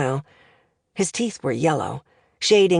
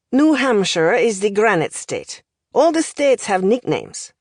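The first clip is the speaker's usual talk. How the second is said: lightly voiced accented professor, lively lilt; language professor; 4 semitones higher than usual. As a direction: deliver it like a pedantic foreign tutor.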